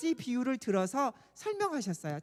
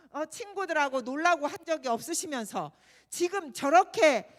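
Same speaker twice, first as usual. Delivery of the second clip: put-on angry older son; 2 semitones higher than usual. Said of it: "화가 나서 이야기하니까".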